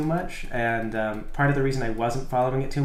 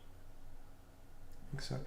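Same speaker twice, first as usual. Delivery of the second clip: whispering; 22 dB quieter, much slower than usual. Real, not acted. Muttered aside.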